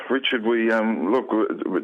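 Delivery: halting delivery with false starts; reluctant, drawn out. Retold or imitated. Newsroom caller breaking bad news to Richard, halting and reluctant. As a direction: stumble reluctantly towards bad news, retelling it. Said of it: "they're trying to drag it out".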